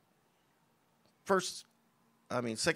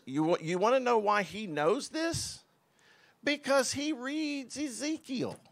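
emphatic reveal; 9 semitones higher than usual. Real, not acted. Rhetorical excited reveal.

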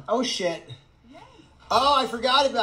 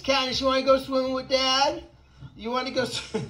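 higher, playful coaxing; pet talk; 5 semitones higher than usual. Real, not acted. Asking Katniss about swimming with Dad, playful pet talk. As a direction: talk to a pet in a raised sing-song question.

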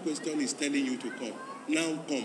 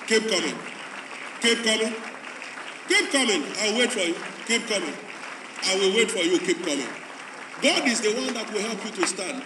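insistent preacher call; 3 semitones higher than usual. Real, not acted. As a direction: keep pressing them to come. Urging converts forward.

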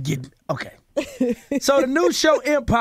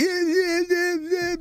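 mock drawl; 7 semitones higher, slower than usual. Mocking the guest's "boy" talk.

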